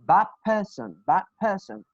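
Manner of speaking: bad person with the d turned into a b; linked consonants. Shown as a demonstration. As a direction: run "bad" into "person" as "bab person". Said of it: "just gonna move it fast".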